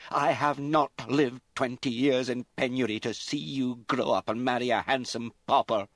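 high, loud raging scold; a mother shouting down her daughter's choice; furious. A narrator's reading. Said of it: "her mother's sudden fury".

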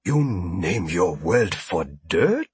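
smooth-talking alien merchant; ingratiating alien trader. A narrator's reading. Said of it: "Abendu frowned".

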